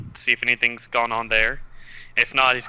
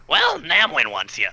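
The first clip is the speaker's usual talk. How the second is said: kobold voice; 4 semitones higher than usual. Acted. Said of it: "Why do I always have to do two voices at once?".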